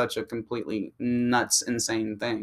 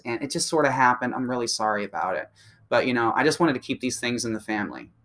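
sweet apology. Retold or imitated. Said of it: "was like".

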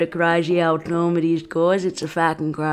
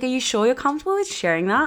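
higher, fast, faux-caring; mock concerned messager; 8 semitones higher, faster than usual. Host mocking a messager's fake concern, high and fast. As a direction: quickly parrot a prissy concerned voice. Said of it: "Someone's like".

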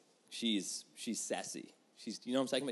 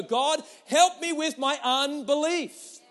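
earnest prayer; 12 semitones higher, 10 dB louder, much slower than usual. Shown as a demonstration. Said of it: "what you need to do is go".

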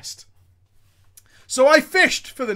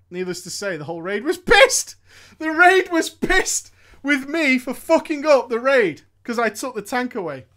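usual speaking voice

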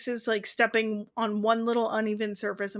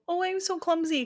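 mock ditzy girl; 6 semitones higher, 4 dB quieter than usual. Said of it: "a cute manic pixie dream girl".

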